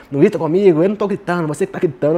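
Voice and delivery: lightly mocking quarrel voices; mock squabble. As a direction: imitate a silly back-and-forth argument. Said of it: "uma coisa meio tosquinha".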